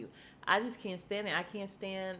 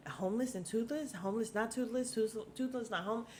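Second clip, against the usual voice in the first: mocking the muddle; 3 semitones higher than usual. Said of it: "all you hear is all around the thing".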